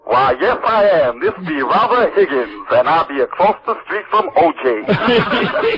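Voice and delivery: lightly put-on, slow made-up reporter voice; slow down and play a hammy made-up reporter. Prank caller fakes a reporter for the network producer, slow and lightly put-on. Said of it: "I come up with this voice".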